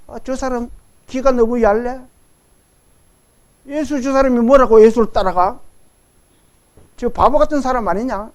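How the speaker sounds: lightly mocking bystanders; mildly scoff, imitating doubters; a touch of imitated sarcasm; sneering onlookers. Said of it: "이렇게 비아냥거리기도 합니다".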